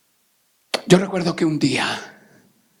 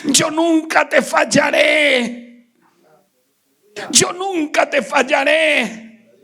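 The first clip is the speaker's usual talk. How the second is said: voice of God; 9 semitones higher, much slower than usual. Retold or imitated. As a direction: proclaim it as God's promise. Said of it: "me dijo". (voz de Dios, lenta y fuerte)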